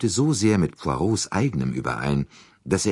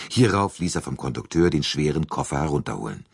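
usual speaking voice

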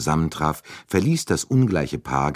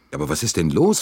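higher, irritated question; mildly exasperated, pitch raised; annoyed; 8 semitones higher, 3 dB louder than usual. A narrator's reading. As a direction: demand an explanation in vexation. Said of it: "fragte Bouc verärgert".

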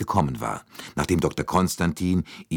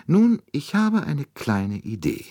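sly; 10 semitones higher than usual. A narrator's reading. Detective teasing his baffled friend.

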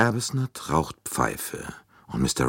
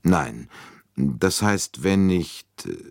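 a mild halting no, then breaking off; understated hesitation, searching for words; hesitating; 2 semitones higher, slower than usual. Acted. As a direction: colonel unsure whether to speak, mildly hesitant. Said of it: "er zögerte".

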